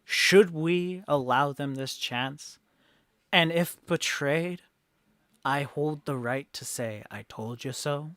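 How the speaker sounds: loud opening, settling into measured doubt; rally the crowd, then caution them; challenging townsfolk orator. Acted.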